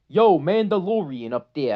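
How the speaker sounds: a loud, hammed-up Brooklyn tough-guy call; Brooklyn accent. The Hutt calls down to Mando in a Brooklyn accent. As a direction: bark it down like a Brooklyn wise guy. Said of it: "I'm giving him a Brooklyn accent".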